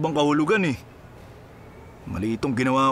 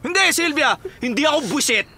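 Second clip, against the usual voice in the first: annoyed denial; 11 semitones higher than usual. Acted. Berto denying he is irritated with Sylvia, exasperated. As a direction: insist you are not annoyed, clearly annoyed.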